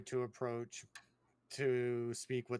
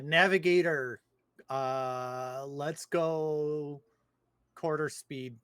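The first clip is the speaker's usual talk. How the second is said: yelling; slower than usual. Acted. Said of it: "I'm going to yell over to the navigator".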